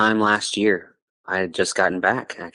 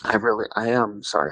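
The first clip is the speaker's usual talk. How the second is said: choked up, holding back tears; crying a little; 3 semitones lower than usual. Real, not acted. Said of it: "I'm crying a little bit right now".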